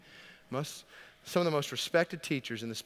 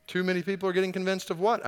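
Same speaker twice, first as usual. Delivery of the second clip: retold counselor's question; 7 semitones higher, 7 dB louder than usual. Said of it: "I responded".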